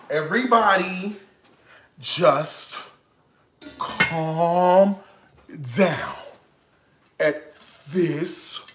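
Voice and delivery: each word set apart with long pauses; slow, word by word. Shown as a demonstration. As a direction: lay it out slowly, as if calming himself.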